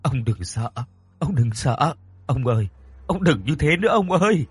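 calm him, then implore; soothing. Acted. Wife comforting her frightened husband, soothing and pleading. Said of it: "Bà dỗ dành".

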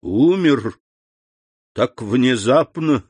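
understated shocked sympathy; a touch of dismayed disbelief; concerned exclamation. A narrator's reading. Prosecutor looks at the dead servant, mildly shocked concern. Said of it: "воскликнул с непритворным участием".

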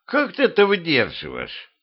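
high-pitched astonished question; amazed. A narrator's reading. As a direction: ask in amazement, pitch jumping up. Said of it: "удивился Петрович".

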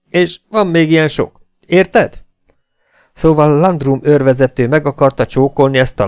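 loud, threatening officer's voice; stern captain interrogating. Acted. Captain threatening the native prisoner, loud and menacing. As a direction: lean on him hard and menacing.

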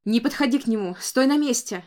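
loud commanding cry; desperate shout. A narrator's reading. Grandmother shouts orders at the boy, desperate. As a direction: order the child to freeze. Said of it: "отчаянно закричала Констанс".

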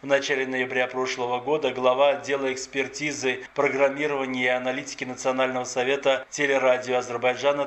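steady, formal newsreader delivery; radio news anchor reading a crime report. Acted. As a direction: read the bulletin crisp and neutral. Presenter reads the news.

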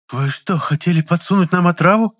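high, loud flustered accusation; bewildered, indignant. A narrator's reading. Customer accusing the chemist, bewildered and loud. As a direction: ask it thrown and outraged. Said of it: "С растерянностью в голосе спросила".

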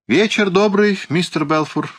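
high-pitched, polished greeting; exquisitely courteous. A narrator's reading. Lawyer greeting the trapped Mr Balfour, exquisitely courteous. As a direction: greet him with elaborate politeness. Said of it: "прибавил он с изысканной любезностью".

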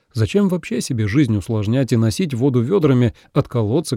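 ordinary delivery

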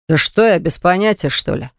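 plain reading voice

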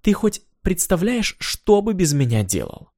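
high, slow indignant question; outraged, drawn out. Acted. Indignant Natasha.

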